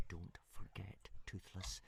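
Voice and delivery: soft, tight warning through clenched teeth; through gritted teeth. A narrator's reading. Hiccup warning Toothless quietly through gritted teeth. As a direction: press it through a clenched jaw. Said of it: "said Hiccup through gritted teeth".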